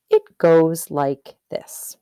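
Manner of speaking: slow hushed whisper before the tale. Acted. Teacher to the class, whispering the tale's opening. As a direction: draw them in with a secret whisper.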